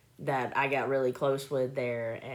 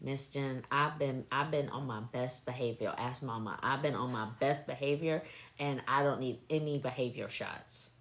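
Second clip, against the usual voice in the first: put-on quiet kid voice; 2 semitones lower, 6 dB quieter than usual. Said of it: "He said".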